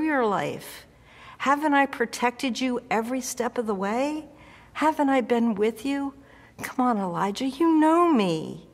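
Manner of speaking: God gently reminding Elijah he is loved; loving, kind God. Acted. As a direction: plead with him like a kind old friend. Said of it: "God was being loving and kind".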